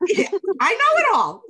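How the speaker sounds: high, loud know-it-all brag; cocky teenager. Retold or imitated. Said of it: "I was like".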